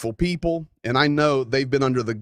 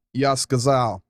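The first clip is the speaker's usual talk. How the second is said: in Russian; 2 semitones lower than usual. Pretend. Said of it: "I'm gonna say it in Russian".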